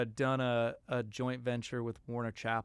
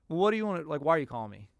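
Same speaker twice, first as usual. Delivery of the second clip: a touch of blunt impatience, a bit louder; gruff attitude; 5 dB louder, faster than usual. Retold or imitated. Mentor Jay answering a random call, mildly imitated as blunt. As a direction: lightly imitate a curt big shot. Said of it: "do you think he really said with that attitude".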